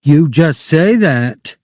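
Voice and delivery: sharp. Acted. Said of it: "she said sharply".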